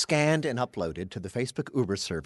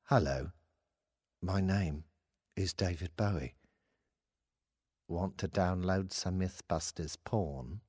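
lower, slow, lightly done rock star voice; a mild put-on crooner, slow; impression of a famous rock singer; 5 semitones lower, 6 dB quieter, slower than usual. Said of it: "it's my best impression".

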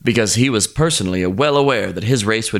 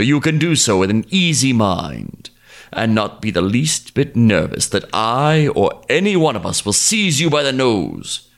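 lightly voiced smooth-talking crocodile; a sweet-talking crocodile selling his deal; persuasive crocodile. Crocodile pitches his peace plan.

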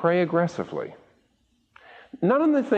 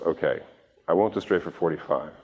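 God's voice, low; 8 semitones lower than usual. Acted. Preacher voices God, low.

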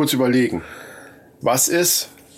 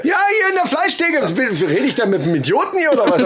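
butcher voice; 2 semitones higher than usual. Pretend. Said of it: "rede wie ein Fleischverkäufer".

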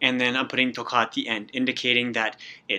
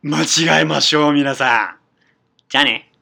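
cheerful sign-off; 2 semitones higher, 7 dB louder than usual. Real, not acted.

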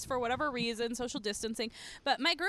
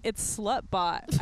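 slow bot voice; 5 semitones lower, much slower than usual. Retold or imitated. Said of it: "And they were like".

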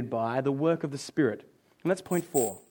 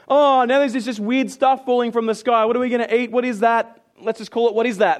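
lightly acted puzzled complaint; mock grumbling; 3 semitones higher, 3 dB louder than usual. Israelites eye strange food from the sky, mock grumbling. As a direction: grumble at what has turned up. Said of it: "They grumbled".

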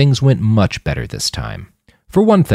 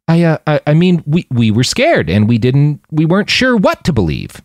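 frightened stammer; 6 semitones higher than usual. A narrator's reading. Manny stammering an excuse to the suspicious guard. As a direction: trip over every word in fear.

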